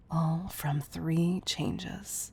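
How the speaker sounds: drawn out very slowly; slow, wondering. Acted. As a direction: let each word land slowly.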